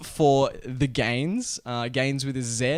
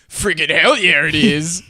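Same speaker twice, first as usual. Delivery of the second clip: douchey voice; 2 semitones higher, 9 dB louder, slower than usual. Pretend. Reads Tinder FAQ answer in a voice.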